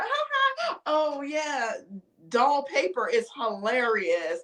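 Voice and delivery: high forced giggle, mocking the boyfriend; fake laugh. Mocking the boyfriend laughing at another girl, forced giggle. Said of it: "you're like".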